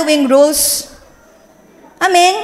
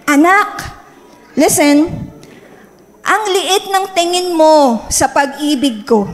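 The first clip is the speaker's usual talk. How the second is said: gentle voice of God; slower than usual. Retold or imitated. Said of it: "God is saying to me".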